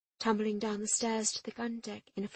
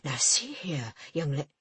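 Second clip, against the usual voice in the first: lower, bluster cut off; 5 semitones lower, 4 dB louder than usual. A narrator's reading. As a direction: splutter in indignation. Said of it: "The port officer blustered".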